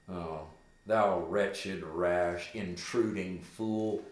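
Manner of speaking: measured, drawn-out acted address; slow rueful contempt. Hamlet speaks to slain Polonius, slow rueful contempt. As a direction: weigh each insult slowly.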